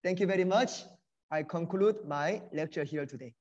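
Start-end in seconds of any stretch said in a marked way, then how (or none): none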